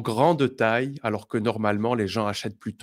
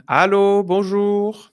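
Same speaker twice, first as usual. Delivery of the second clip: high, loud phone greeting; answering the phone; 9 semitones higher, 7 dB louder, slower than usual. Pretend. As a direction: pick up and greet the caller brightly. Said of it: "Je décroche le téléphone".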